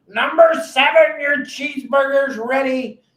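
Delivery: high, loud call of an order across a busy galley; galley cook calling. Retold or imitated. Boat cook calling out a customer's burger order, loud and high. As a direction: shout the order number like a cook.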